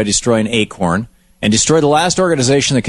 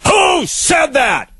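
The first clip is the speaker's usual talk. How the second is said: demanding shout; much slower than usual. Retold or imitated. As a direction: drag out each word as a demand. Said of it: "Khrushchev demanded".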